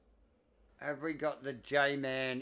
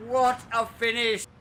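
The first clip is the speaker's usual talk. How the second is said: excited; 9 semitones higher, 9 dB louder than usual. Real, not acted. Race finish excitement.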